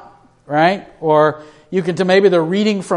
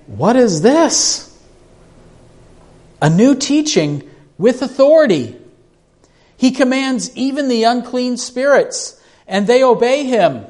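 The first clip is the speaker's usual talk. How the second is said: amazed crowd; 7 semitones higher than usual. A narrator's reading. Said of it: "And they were all amazed".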